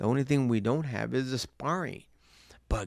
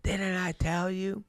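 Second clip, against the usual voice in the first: slow, breathy warning whisper; menacing hiss; 7 semitones higher, slower than usual. Retold or imitated. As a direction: hush it like a threat. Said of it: "He goes".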